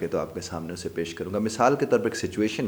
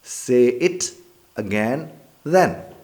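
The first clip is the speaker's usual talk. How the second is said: louder, rising challenge; threatening dare; 5 semitones higher, 7 dB louder, much slower than usual. Shown as a demonstration. First man threatens, daring him to repeat. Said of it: "यानी एक दफ़ा कह के तो देखो फिर।".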